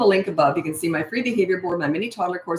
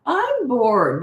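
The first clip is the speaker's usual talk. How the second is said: whining "I'm bored", a little higher; whiny and snotty; 6 semitones higher, 3 dB louder than usual. Retold or imitated. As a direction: stretch "I'm bored" into a bratty whine. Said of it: "that whiny, snotty tone".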